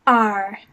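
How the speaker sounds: R loud, gliding down; fourth tone. Shown as a demonstration. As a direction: say R like a pirate, falling in pitch. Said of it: "fourth tone going down".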